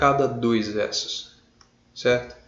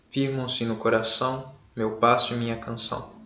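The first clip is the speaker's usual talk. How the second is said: poem recitation; 2 semitones lower, 4 dB quieter than usual. Shown as a demonstration. Recita o poema. (leitura de poema, lenta e suave)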